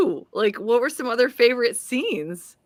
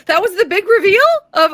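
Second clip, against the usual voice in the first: usual speaking voice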